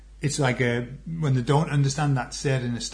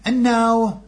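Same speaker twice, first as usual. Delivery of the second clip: announcer; 5 semitones higher, slower than usual. Pretend. Announcing the sponsor break.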